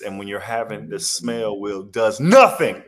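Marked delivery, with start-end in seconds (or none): 1.8-2.8 flat dismissal. Real, not acted. Dismissive punchline.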